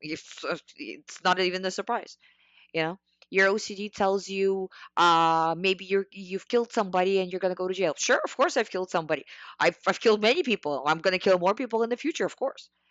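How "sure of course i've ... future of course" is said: sarcastic, disbelieving, mockingly agreeing tone. Showing how to answer an OCD thought: demonstrating sarcastic reply. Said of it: "So you're sarcastically reacting to any".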